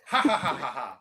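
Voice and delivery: loud rhythmic ha ha laugh. Shown as a demonstration. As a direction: laugh it out syllable by syllable. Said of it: "Make that noise".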